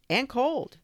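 high, loud plaintive cry; cried out. A narrator's reading. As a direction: call it out pitifully. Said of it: "they cried".

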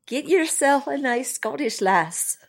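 put-on slow, amateur Scottish accent; a lightly done Scottish brogue; bad Scottish accent. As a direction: try on a Scottish accent and miss a bit. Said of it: "I really need to work on my accent".

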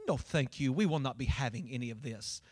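low, soft, prim and stern refusal; persnickety church lady. Retold or imitated. Old church lady refuses the mother, low, soft and persnickety. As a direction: look down your nose and refuse it quietly. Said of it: "in a persnickety kinda way".

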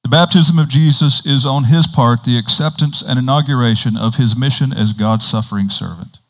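continuous reading with fewer breaks; straight read-through. Real, not acted. Preacher rereading the paragraph without commentary, straight read-through. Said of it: "read it again without the commentary".

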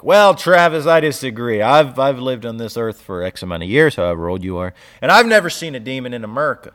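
put-on Southern accent. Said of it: "your southern accent comes out every time".

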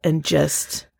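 slow, sincere thanks; heartfelt, slow. Retold or imitated. Husband thanking his wife next morning, slow and sincere. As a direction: quote him slowly and tenderly. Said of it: "He's like".

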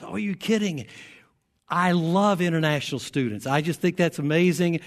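mildly excited retold quote; enthusiastic reply. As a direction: gush a little, welcoming a stranger.

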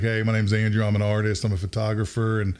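put-on laid-back college kid introducing himself; calm, easygoing. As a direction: lightly imitate a mellow, cool guy. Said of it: "real kinda calm and easygoing".

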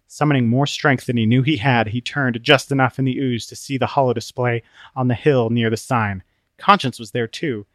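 ordinary delivery, nothing marked

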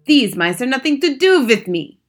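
put-on high, loud accented witch voice; shouted. A narrator's reading. Grand High Witch disowning the mice, loud shouting. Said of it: "she shouted".

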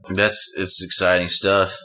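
real lack of enthusiasm; unexcited. Real, not acted. Partner responding to the other's radio news, not very excited. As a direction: say it with little excitement. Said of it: "You don't sound very excited".

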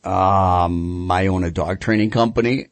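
hesitant, sheepish admission; acted embarrassed confession. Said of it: "And sheepishly, I'm like".

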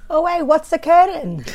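cheeky Welsh catchphrase; playful Welsh accent tease. Pretend. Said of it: "I refuse to say what's occurring".

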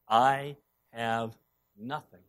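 low, fading whisper of despair; hushed despair. Retold or imitated. Widow confessing her emptiness, hushed and fading. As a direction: let it die away. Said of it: "like this widow who's saying".

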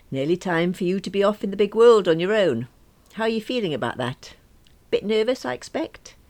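high, loud, brightly hearty mum; forced heartiness. A narrator's reading. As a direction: put on a brave cheery front for her son. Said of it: "as heartily as I could".

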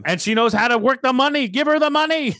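high, rising mock cheer; excited joking. Real, not acted. Joking outburst about the worker.

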